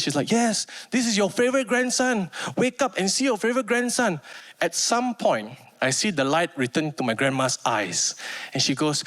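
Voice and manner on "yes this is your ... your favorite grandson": tearful aunt. Retold or imitated. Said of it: "on the verge of tears".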